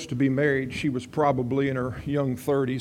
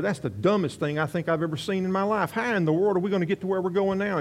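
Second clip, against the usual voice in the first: imitating an incredulous husband, pitch climbing; a husband's baffled protest, retold; retold exasperation; 5 semitones higher than usual. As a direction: voice mild mock outrage, speeding up at the end. Husband scolds wife after shooting.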